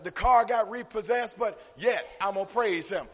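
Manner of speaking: preacher hammering out key words; emphatic preaching. Real, not acted. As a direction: drive each phrase home to the congregation. Preaching to congregation.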